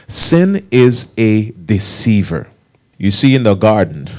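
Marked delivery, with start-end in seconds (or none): 0.1-2.5 slow, spaced-out teaching line; leading congregation repetition. Shown as a demonstration. Preacher has the congregation say it along, slow and deliberate. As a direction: say it slowly for others to join in. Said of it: "Say that with me".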